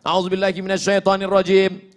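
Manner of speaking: measured Arabic recitation; recited formula. Shown as a demonstration. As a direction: recite it clearly like a prayer. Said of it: "Ada yang lain?".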